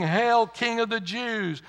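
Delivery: loud, high, drawn-out mock acclamation; preacher imitating mocking soldiers; mocking hail. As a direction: proclaim it slowly as a taunt to a false king. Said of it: "bowed the knee before him and mocked him".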